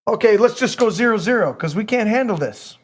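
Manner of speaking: high, loud mock panic; panicky quote. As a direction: freak out like a scared negotiator. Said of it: "They're freaking out".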